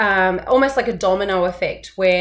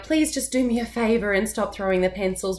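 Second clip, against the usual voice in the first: pleading. Shown as a demonstration. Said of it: "It sounded very pleading".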